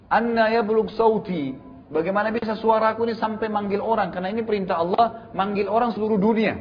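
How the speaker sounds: puzzled questioning. Retold or imitated. Preacher voicing Ibrahim asking Jibril how, puzzled. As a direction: retell an incredulous question.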